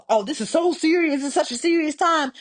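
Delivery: mild mock-serious celebrity tone; mock solemn. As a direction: fake sincerity with an eye-roll. Mocking a singer's excuse.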